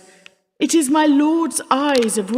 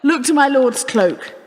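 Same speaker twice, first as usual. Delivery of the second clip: laughing jest; 2 semitones higher than usual. Acted. Wife jests before guests.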